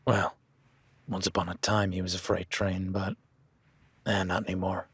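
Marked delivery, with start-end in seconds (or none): 0.0-0.4 a warm chuckle rolling into the word; laughing. Real, not acted. Rancher to the new hand about the old horse, chuckling. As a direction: laugh it out before going on.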